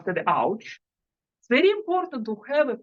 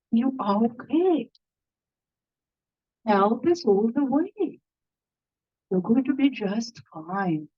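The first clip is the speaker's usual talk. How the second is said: reassuring nurse voice; 2 semitones lower than usual. Shown as a demonstration. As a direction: soothe yourself like a kind nurse. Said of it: "what intonation do you need?".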